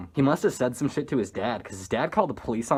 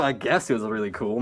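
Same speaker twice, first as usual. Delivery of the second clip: puff, then an unimpressed lower aside; low-key sceptical echo; dry concession; 3 semitones lower than usual. Real, not acted. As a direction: concede it drily, unconvinced. Teller's dry answer to the quote.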